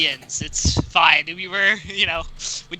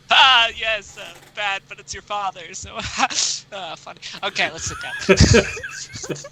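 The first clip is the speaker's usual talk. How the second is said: uncomfortable laugh; 2 semitones higher, slower than usual. Acted. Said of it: "that kind of uncomfortable laugh".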